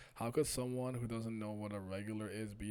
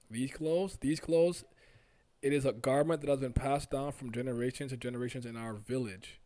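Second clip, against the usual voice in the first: louder, declarative character voice; earnest villager; 3 semitones higher, 10 dB louder than usual. Acted. Stranger explains village garment to questioner, earnest raised declaration. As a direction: proclaim it with pride of heritage.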